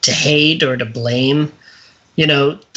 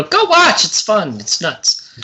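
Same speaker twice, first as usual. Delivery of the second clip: mock excited recommendation; 5 semitones higher, slower than usual. Recommending the movie to listeners, excited burst that trails off. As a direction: sell it like an enthusiastic friend, then fade out. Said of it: "I would go".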